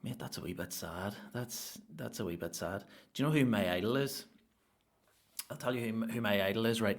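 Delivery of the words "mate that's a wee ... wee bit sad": mock pity. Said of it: "they're just like".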